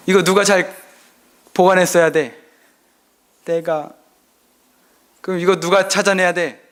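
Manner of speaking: stern questioning. Retold or imitated. Father interrogating crying son.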